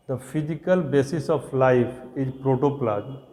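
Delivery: very slow, each word set apart for writing down; slow dictation. Shown as a demonstration. Teacher dictating the definition to the class, very slowly.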